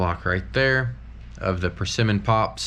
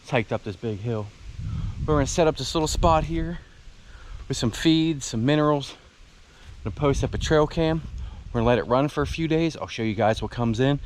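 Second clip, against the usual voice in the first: winded, talking between breaths; catching breath mid-sentence; gasping for air; 5 semitones higher than usual. Real, not acted. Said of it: "I'm sorry, I'm out of breath".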